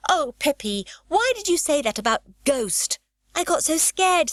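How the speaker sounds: put-on high, loud, breathless child's complaint; a frightened girl still shaken; scared reproach. A narrator's reading. Annika telling Pippi the ghost talk scared her, high and loud.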